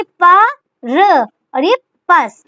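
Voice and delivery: purpose broken into slow, separate pieces; sounded out in parts. Shown as a demonstration. Teacher showing students how to write purpose, sounded out slowly. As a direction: sound out प, र, पस one by one.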